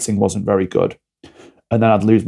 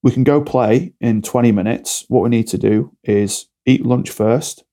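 put-on calm to a child. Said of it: "I'll just ask them quietly".

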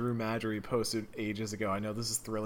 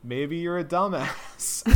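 blunt dismissive retort; 6 semitones higher, 4 dB louder, slower than usual. Retold or imitated. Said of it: "Or you can just be like".

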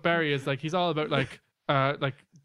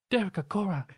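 higher-pitched put-on accented spirit guide; Sam; 6 semitones higher than usual. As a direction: call out as a reproachful spirit. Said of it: "You should do a Sam impression".

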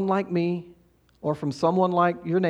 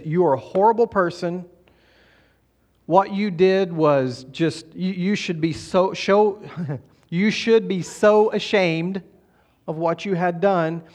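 voice of condemnation. Retold or imitated. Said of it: "Condemnation says this".

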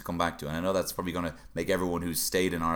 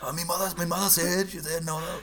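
light put-on voice; 11 semitones higher than usual. Quoting mum in a voice.

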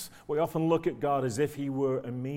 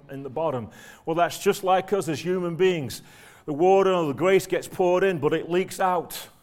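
put-on dad's broad Manchester accent; lightly voiced northern English dad; 4 dB louder than usual. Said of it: "in his broad Manchester accent".

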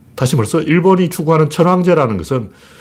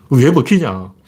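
ordinary talk

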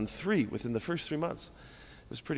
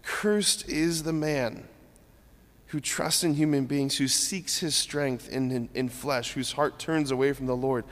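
merciful father. Shown as a demonstration. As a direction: read it with a father's aching heart. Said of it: "the Father's heart saying".

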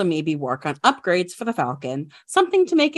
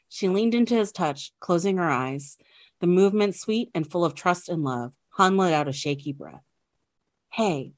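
hushed nature documentary. Acted. Reads fan fiction aloud.

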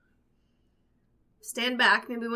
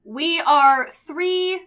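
calling out; 6 semitones higher, 11 dB louder than usual. Acted. Player calls out slowly to door.

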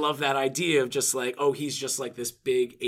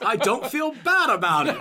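laughing; 9 semitones higher, 4 dB louder than usual. Retold or imitated. Retelling quote, laughing.

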